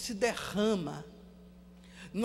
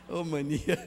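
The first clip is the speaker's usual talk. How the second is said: laughing; 7 semitones lower, 5 dB quieter than usual. Retold or imitated. Retelling woman, laughs.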